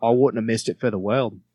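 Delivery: tentative Australian accent. Shown as a demonstration. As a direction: try the lyric in Australian. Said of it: "It takes me a second to get into it".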